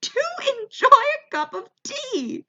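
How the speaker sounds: very high, mock crowd holler; hammed-up heckle from the audience; yelling back. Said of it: "People are yelling back".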